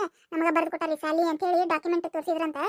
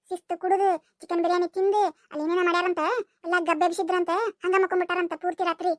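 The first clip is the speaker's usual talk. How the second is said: put-on boy with a cold. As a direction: play Surya with a changed voice from a cold. Surya's lower voice continues.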